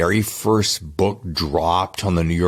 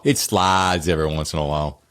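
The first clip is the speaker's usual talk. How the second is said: Southern accent; 4 semitones lower than usual. Shown as a demonstration. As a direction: let "slides" slip into a North Carolina "slahdz". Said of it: "that's my upbringing, which is North Carolina".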